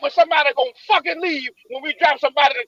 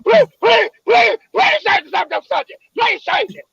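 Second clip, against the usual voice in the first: pleading; 3 semitones higher than usual. Real, not acted. Begging to change subject.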